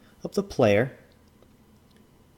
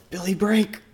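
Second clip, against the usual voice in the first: high-pitched mock Asian accent; put-on Asian accent; 10 semitones higher, slower than usual. Judge naming the famous player, high put-on Asian accent. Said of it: "I just talk in accents".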